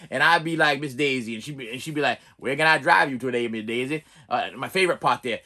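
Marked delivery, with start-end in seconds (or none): 2.4-4.0 lightly voiced Morgan Freeman; Morgan Freeman impression. YouTuber imitating Morgan Freeman as the driver. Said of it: "my Morgan Freeman impression".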